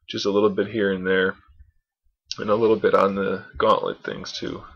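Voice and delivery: tired, hoarse voice fading out; losing voice. Real, not acted. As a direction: talk through a voice that's going hoarse. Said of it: "Sorry, I'm losing my voice".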